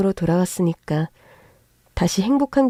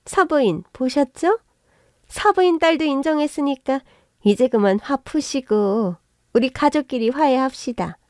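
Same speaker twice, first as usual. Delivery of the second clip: fawning appeal; 4 semitones higher than usual. Acted. In-law mother sucking up.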